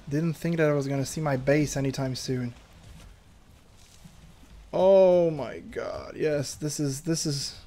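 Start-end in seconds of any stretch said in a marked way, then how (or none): 4.7-7.6 mock overwhelmed. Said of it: "I'm gonna cry".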